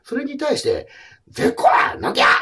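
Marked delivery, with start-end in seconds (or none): 1.3-2.3 louder, petulant mock shout; Beverly lashing out at her carer, loud and sulky; defiant outburst. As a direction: throw it back like a sulking child. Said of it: "って怒るのは".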